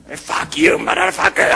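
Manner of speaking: imitated shouted English curse; insultos en inglés. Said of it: "nos empieza a insultar en inglés". (insulto gritado en inglés, imitando al gringo)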